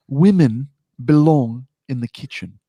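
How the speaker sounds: put-on slow, deliberate English accent. Podcast co-host rereads deleted tweet on request, English accent. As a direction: read it slowly in an English accent. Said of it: "need that in an English accent".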